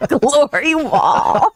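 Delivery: slow, high, laughing words; helpless drawn-out giggly echo; laughing repeat. Real, not acted. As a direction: stretch the words out through laughter. Laughing as she repeats the joke.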